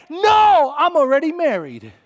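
loud, high, emphatic protest; shouted refusal. Retold or imitated. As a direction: holler back a retold answer. Shouted reply to the yeller.

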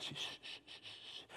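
very soft unvoiced shushing. Mother shushing her baby so the patrol won't hear. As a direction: shush a crying baby, barely audible. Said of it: "she says".

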